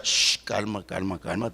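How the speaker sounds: soft, low shushing; hushing calm. Pretend. Preacher soothing an imagined upset wife, soft hush. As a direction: settle her down gently.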